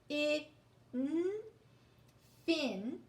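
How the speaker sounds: "I", "N", then "fin", each sound alone; letter sounds. Shown as a demonstration. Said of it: "just say the letter sounds".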